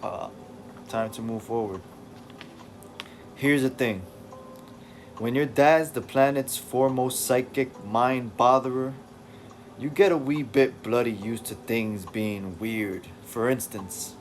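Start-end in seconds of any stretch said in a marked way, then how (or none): 5.2-14.2 put-on loose British accent for David; attempted British accent. David telling the reader about his mind, in a rough British accent. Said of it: "I should be speaking with an English accent".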